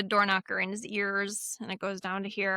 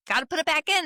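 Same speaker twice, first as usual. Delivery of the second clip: apologetic Sarah; 8 semitones higher, 4 dB louder, much faster than usual. Retold or imitated. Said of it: "she's like".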